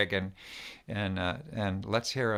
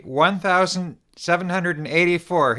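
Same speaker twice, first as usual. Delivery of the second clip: loud, higher-pitched lead-in for a crowd; call to repeat; 6 semitones higher, 5 dB louder than usual. Shown as a demonstration. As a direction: call out the number for everyone to repeat. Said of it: "everybody repeat after me".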